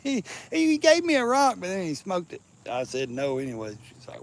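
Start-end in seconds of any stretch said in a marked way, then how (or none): 0.0-2.4 laughing through the line. Retold or imitated. Man retelling a girlfriend's joke while laughing.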